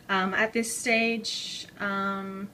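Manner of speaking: a little winded, slow; out of breath. Real, not acted. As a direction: talk while catching breath. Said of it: "so I'm a bit out of breath".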